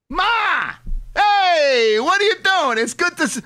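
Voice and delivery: mock loud phone call. Man fakes calling his mother to outshout a diner, hammed-up loud. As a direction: drown out the rude diner with a pretend call. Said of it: "I went like this".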